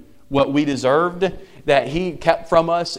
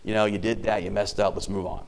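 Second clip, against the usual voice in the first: softer, gentle arm-round-the-shoulder talk; reassuring coach; 3 semitones lower, 5 dB quieter than usual. Retold or imitated. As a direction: ease the player past the mistake softly. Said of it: "putting your arm around him and saying".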